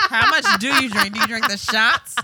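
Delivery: asking between laughs, can't keep it straight; laughing through questions. Real, not acted. Asking friends how much to drink, laughing.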